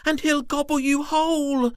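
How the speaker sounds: high, loud scared worm; small worm voice. Acted. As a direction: warn him in a fright. Twirly warns continues.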